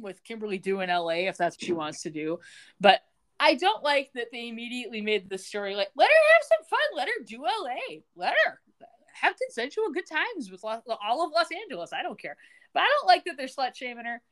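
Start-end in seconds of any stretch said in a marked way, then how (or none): 5.9-12.4 much higher, sing-song mock cheer; mock carefree voice. Host mocking the show's framing in a high sing-song. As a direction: parody a breezy, anything-goes narrator.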